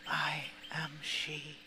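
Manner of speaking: unvoiced, slow whisper; hushed confession in the mirror. A narrator's reading. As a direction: breathe the last words out. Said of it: "that heard me whisper".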